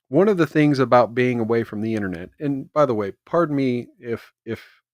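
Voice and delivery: talking while chewing gum; words round a wad of gum. Real, not acted. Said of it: "I am chewing gum while I'm talking".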